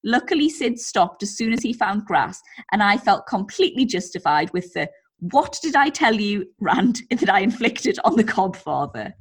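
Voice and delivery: lively, measured story narration; story read-aloud. A narrator's reading. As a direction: read the anecdote out to entertain. Reads out a listener's story.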